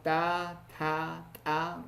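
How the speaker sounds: three separate alveolar TA syllables, held out; consonant pronunciation drill. Shown as a demonstration. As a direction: sound out each TA for learners. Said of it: "pronunciando estos consonantes".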